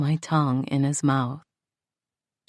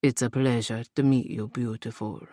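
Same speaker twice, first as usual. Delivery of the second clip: smooth uncle; 3 semitones lower than usual. A narrator's reading. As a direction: charm her as the smooth uncle. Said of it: "his smooth uncle voiced".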